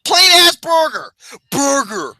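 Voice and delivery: high, squealed crack-up; laughing repetition. Real, not acted. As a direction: choke it out through laughter. Cracking up at the burger bit.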